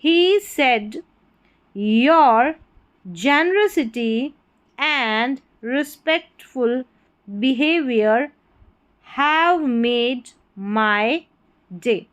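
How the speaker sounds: slow, word-by-word reading aloud; teacher's model reading. Shown as a demonstration. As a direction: read it out for learners, pausing after each word. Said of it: "इस paragraph की reading करेंगे". (धीमा, एक-एक शब्द अलग करके वाचन)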